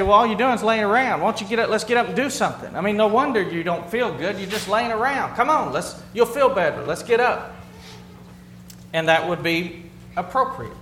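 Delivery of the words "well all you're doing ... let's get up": pep talk. Retold or imitated. Husband urging bored daughter off the couch, brisk pep talk. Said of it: "and I'd say".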